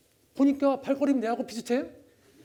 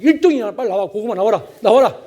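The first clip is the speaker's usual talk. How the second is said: joyful shouting; 12 dB louder than usual. Retold or imitated. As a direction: yell with pride at the sweet potatoes. Father cheers while digging.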